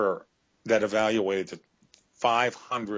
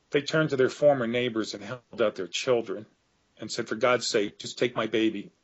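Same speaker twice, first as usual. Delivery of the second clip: getting emotional. Real, not acted. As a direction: hold back tears as the plea quietens. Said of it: "This is where I get emotional".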